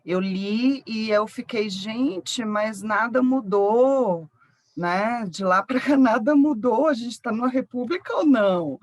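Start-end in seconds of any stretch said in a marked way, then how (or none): 1.7-8.8 retold disbelief. Writer telling mentor how a book struck her, retold disbelief. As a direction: recount your incredulous reaction, voice lifted. Acts out own astonished reaction to book.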